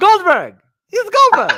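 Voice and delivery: put-on very high, loud, swooping grandma voice. Doing the voice again when asked: imitating a Riyadh grandmother. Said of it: "Do the voice again".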